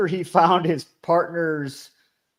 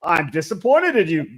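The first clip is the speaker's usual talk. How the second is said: mock-condescending suspect; 4 semitones higher, 5 dB louder than usual. Host playing the guilty suspect talking to the detective, condescendingly. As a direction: talk down to the cop, building louder and higher at the end. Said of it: "talk condescendingly to the cop".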